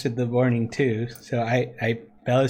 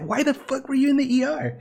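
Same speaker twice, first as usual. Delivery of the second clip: laughing disbelief; 12 semitones higher than usual. Retold or imitated. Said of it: "comes like".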